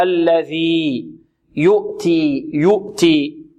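slow الذي يؤتي with a pure "u" in "yu'ti"; full damma. Shown as a demonstration. Teacher modelling recitation for students, clear rounded damma. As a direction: round the lips fully on the يُ of يؤتي. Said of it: "هنا نحافظ على ضم".

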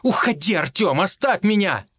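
high, desperate cry. Acted. Vika ordering Artyom to leave, desperate cry. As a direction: push him away with your voice.

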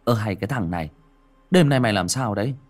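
put-on a friend taunting the frightened boy; mocking. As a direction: scoff at the scaredy-cat. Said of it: "cất tiếng châm chọc".

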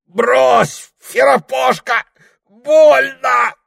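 высоко и громко; вопи от боли; крик от боли. Acted. Прохору рвут бороду. (Прохор вопит от боли)

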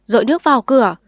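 loud shouted echo; crowd shouting. A narrator's reading. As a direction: shout the order back. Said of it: "bừng tỉnh".

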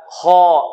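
emphatic full-mouthed خاء; heavy letter demo. Shown as a demonstration. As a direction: say خاء heavy, with a dark, rounded vowel. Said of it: "آه، هكذا". (نطق خاء مفخمة)

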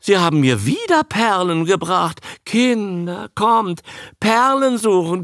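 high, delighted exclamations; squealing excited Lee. A narrator's reading. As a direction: gush like a child on a treasure hunt. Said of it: "schrie Fräulein Lee auf".

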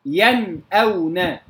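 ينأون slowly, crisp noon without held hum, then hamza; clear izhar. Shown as a demonstration. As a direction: give ينأون a clean still noon before the hamza. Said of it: "بإظهار النون الساكنة". (إظهار النون في ينأون بلا غنة زائدة)

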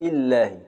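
إلهي said as ilːahi with the ya elided; ya dropped. Shown as a demonstration. Teacher demonstrating the third dialect form. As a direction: run إلهي together, no ya before the lam. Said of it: "إسقاط الياء بالكلية".

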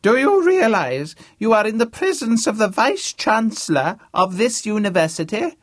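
put-on high, loud booming old academic; pompous old Vice-Chancellor. James impersonating a Vice-Chancellor to Harvey, booming. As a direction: play the grand deaf old don, full volume. James scolds chauffeur in role.

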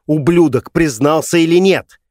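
high, loud angry yell; mother screams at her husband about the boy; shouting. Acted. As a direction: yell the question at him. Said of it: "кричала Ван Яо".

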